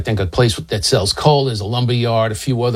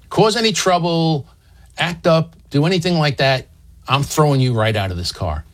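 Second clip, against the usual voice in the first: higher-pitched warning, at usual volume; lightly acted threat, pitched up; retold stern warning; 4 semitones higher than usual. Driver warning the women before letting them ride, mildly threatening.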